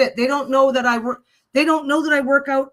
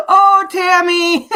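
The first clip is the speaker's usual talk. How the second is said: slow and louder, laughing through the name; 7 semitones higher, 10 dB louder, much slower than usual. Real, not acted. Amused by Tammy's chat message, laughing through it. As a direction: let the laugh carry the name.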